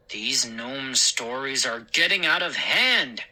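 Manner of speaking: stern, mildly irritated; snapped. Acted. Father fed up with gnome stories, mildly snapping. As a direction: cut off the nonsense firmly. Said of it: "he snapped".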